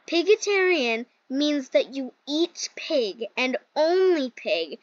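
slow, deliberate retold explanation; imitated explaining. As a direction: spell it out slowly, as the brother did. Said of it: "he explained it to me".

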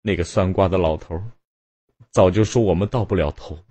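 cling to him with each "好不好"; wife begging her husband not to leave, voice climbing; desperate pleading. A narrator's reading. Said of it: "卞太太接着说".

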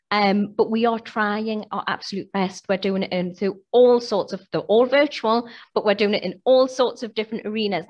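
hoarse voice. Real, not acted. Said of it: "That's why I'm losing my voice today".

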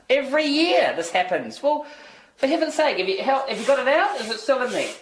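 fretting at trouble back home; exasperated. Acted. Brian hears of trouble at home from his wife, exasperated. Exasperated phone reaction to bad news.

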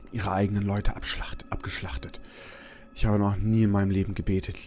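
story narration. Acted. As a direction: read the note aloud calmly. Reads in-game diary note.

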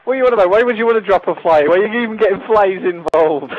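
put-on high, loud indignant kid voice; mimicking a high-pitched kid. Retelling the other boy's reply, high mocking voice. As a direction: squeak it out like an outraged little boy. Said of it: "one talks like this and the other".

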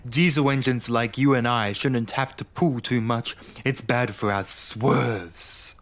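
haughty railcar, slow on the end; lightly voiced scoffing diesel; scoffing Daisy. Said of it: "Daisy scoffed".

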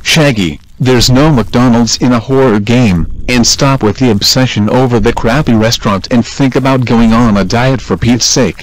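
angry. Acted. Fred scolds Shaggy.

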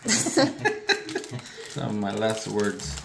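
slow, soft laughing aside. Real, not acted. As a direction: chuckle it out slowly. Laughs after the mock last words.

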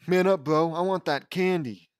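loud, pushy bro voice; tough bravado. Acted. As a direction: bark it like a tough kid. Tough bravado to scared friend.

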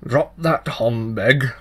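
loud sharp command; harsh voice. Acted. Changeling child orders the tailor to stop whistling, harsh and loud. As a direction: snap it out harshly. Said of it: "said the harsh voice".

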